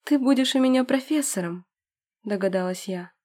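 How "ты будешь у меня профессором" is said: excited. Acted. Excited guess to beloved.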